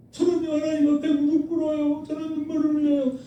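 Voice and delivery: imitating a showy pious believer; mock pious boast. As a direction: parody a believer bragging of his devotion. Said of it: "그런 말을 하는 것 자체가 부끄러운 거죠".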